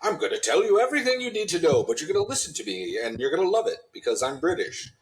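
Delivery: starts high and quick, then settles; a hint of a self-important explainer; lightly voiced exposition man. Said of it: "exposition man, right? He just, he shows up".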